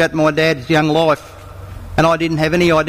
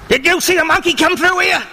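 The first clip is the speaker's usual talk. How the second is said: lion voice; 9 semitones higher than usual. Acted. Lion questions the disguised monkey.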